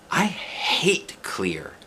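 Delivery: slow breathy whisper. A narrator's reading. Lucille whispering to Junie B, confiding. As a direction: whisper it like a secret. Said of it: "said Lucille".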